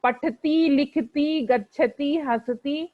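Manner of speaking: पठती लिखती हसती with long final vowels; wrong pronunciation. Shown as a demonstration. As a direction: drag out the final ई, as students wrongly do. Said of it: "इस तरह से नहीं उच्चारण करना है".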